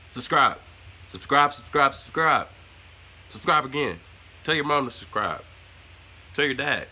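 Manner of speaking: loud, excited outro chant; hyped shouting. Real, not acted. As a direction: yell it like a hype man. Hyped outro begging to subscribe.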